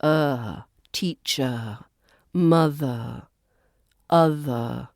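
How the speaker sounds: "Er, teacher, mother, other" ending in a relaxed uh; final schwa. Shown as a demonstration. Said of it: "words end in the er sound".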